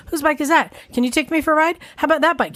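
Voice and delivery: slightly high, pestering child imitation; a hint of an eager, insistent child; relentless kid. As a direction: lightly mimic a kid asking over and over. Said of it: "Cameron was relentless".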